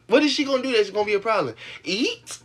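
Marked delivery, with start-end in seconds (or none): 1.8-2.4 high, loud disbelief; a real jolt of surprise, pitched high; incredulous. Real, not acted. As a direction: shoot up in disbelief. Incredulous outburst.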